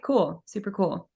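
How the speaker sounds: dry sarcastic cool. Real, not acted. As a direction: say it deadpan and ironic. Ironic about trauma.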